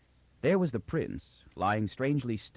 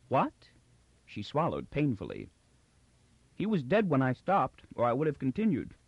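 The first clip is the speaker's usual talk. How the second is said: timid clown Magnifico; 4 semitones higher than usual. Acted. Magnifico's voice, held.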